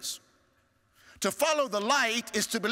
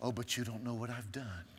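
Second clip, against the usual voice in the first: doubting listener voiced; 10 semitones lower, 10 dB quieter than usual. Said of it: "you may be thinking".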